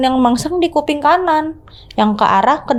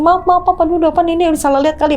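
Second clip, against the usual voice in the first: panicked muttering; 6 semitones higher, much faster than usual. Retold or imitated. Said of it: "aku bilang gitu".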